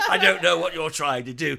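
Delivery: half-laughing bad British devil voice; mock British menace, breaking into laughter; laughing bad British accent. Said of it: "the devil, all of a sudden?".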